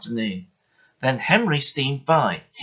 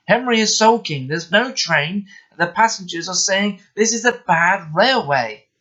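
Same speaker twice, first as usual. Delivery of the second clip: flustered station master; 8 semitones higher, 4 dB louder than usual. Acted. Station master reports trouble.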